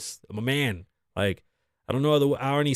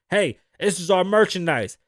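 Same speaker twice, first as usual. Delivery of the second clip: raised-voice imitation of women yelling; mock yell, higher pitched; retold screaming; 5 semitones higher, 4 dB louder than usual. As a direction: call out like an indignant shop worker. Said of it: "it was women screaming at the man".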